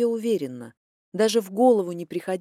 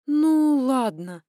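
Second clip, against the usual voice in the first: confused; 5 semitones higher, 5 dB louder, much slower than usual. Acted. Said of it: "растерянно ответила я".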